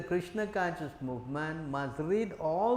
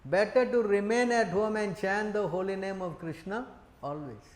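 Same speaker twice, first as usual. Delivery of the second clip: stern rebuke; 3 semitones higher than usual. Retold or imitated. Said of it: "Chaitanya Mahaprabhu replied".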